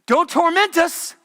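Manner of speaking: high, loud, slow desperate plea; pleading demons. Retold or imitated. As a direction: beg for mercy in terror.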